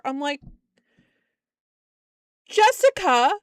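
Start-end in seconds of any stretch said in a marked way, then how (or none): 2.5-3.3 loud, high scolding shout; exasperated yell. Retold or imitated. Boss yelling at her employee about the customer.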